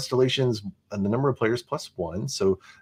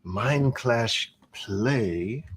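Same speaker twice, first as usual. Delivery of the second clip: announcer voice; 3 semitones lower, much slower than usual. Acted. Announcing the game's name.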